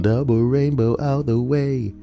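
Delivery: double rainbow guy. Retold or imitated. Quoting viral meme.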